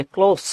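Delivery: ক্লোজ ending in s, never a z; dental s. Shown as a demonstration. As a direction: say ক্লোজ as "klohss". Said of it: "এই যে দন্ত স উচ্চারণ হবে".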